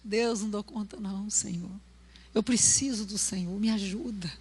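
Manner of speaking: quiet plea for help; humble prayer. Shown as a demonstration. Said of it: "Deus gosta da gente desse jeito".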